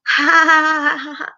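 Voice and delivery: high manic cackle; maniacal laugh. Acted. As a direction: laugh like a mad scientist. Demented Twilight laughing.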